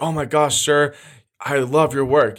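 mock a fan fawning over a hero; starstruck fan. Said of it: "if you met one of your heroes".

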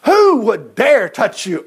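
slow, forceful shout of outrage; furious king roaring at the threat; angry king. Acted. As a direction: mad king demanding to know who. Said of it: "you gotta put the personality in it".

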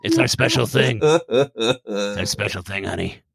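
a hint of a doting husband; mock husband. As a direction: answer her, lightly put-on. Playing Gene in reply.

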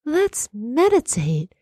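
lightly mocking a blissful, floaty coaxer; mock dreamy meditator. Teasing the carefree course leaders, mild dreamy sing-song. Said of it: "skipping along with butterflies".

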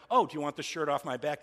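mocking, pointed sarcasm; sarcastic. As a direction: offer it up with sarcastic scorn.

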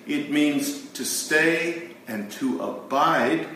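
"abide" stretched out and leaned on, slow; stress on abide. Shown as a demonstration. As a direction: dwell on "abide" so it lands. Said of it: "when I emphasize abide".

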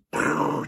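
rough puff of the lips; imitated blowing-away noise. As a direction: make a quick blast-it-away noise. Imitates fear being blown away.

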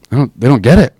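a retold bewildered aside; incredulous. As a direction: disbelief at everyone else. Retold inner bafflement, rising.

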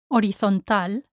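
horizontal as o-ree-thon-TAL; silent H. Shown as a demonstration. Teacher models for learners, horizontal without the H. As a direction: drop the H from horizontal, Spanish style. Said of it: "the H is silent".

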